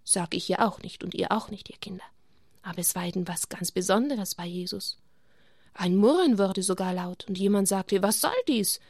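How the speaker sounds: put-on gentle storytelling for children; story narration. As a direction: tell it like a bedtime Bible story. Reading Bible story to children.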